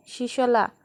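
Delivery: a sad, pleading call of his name; mild mournful plea; plaintive call. Acted. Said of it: "করুণ সুরে ডাকে".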